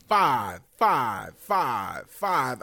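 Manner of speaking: put-on low, droning old man croak; oldest man voice. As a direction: sound like an eighty-year-old. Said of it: "You sound like the oldest man right now".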